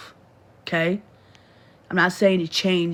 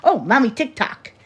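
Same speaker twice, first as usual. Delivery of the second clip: imitating little boy; 2 semitones higher than usual. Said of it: "He says TikTok".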